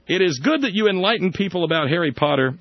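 a slipped, wrong accent for the Ratzinger quote. Shown as a demonstration. Host quoting the future Pope, wrong accent. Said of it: "Wait a minute, wrong accent".

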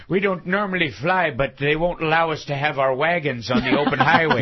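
lightly voiced rustic farmer; a hint of a plain-spoken Amish farmer; Amish passenger.

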